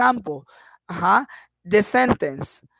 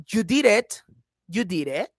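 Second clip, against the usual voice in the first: "You did it" said as a question, lifting on "it"; rising question intonation. Shown as a demonstration. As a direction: let YOU DID IT end on a questioning rise. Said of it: "If I say, ... intonation".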